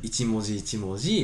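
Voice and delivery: slow, every syllable distinct; slow, deliberate. Shown as a demonstration. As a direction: spell it out one character at a time. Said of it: "こうやって".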